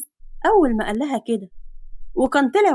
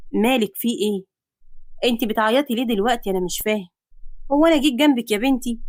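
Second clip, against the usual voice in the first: puzzled hero. Acted. Man confused by girl crying. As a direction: ask why she cries. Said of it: "باستغراب".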